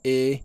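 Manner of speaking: E held high and level; long, level first-tone E. Shown as a demonstration. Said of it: "On a le premier ton".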